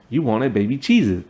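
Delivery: lightly imitated Hispanic accent; Gloria's Hispanic accent. Wife answering husband about the snack, light Hispanic accent. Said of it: "That's how she says it".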